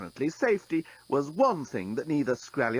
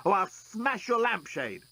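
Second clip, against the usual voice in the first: choking; 8 semitones higher, slower than usual. Acted. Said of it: "choked the journalist".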